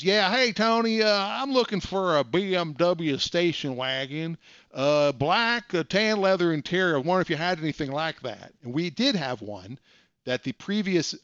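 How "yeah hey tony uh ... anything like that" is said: prank caller voice. Retold or imitated. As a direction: fake an eager buyer on the phone, pitched high. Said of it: "let's have some fun".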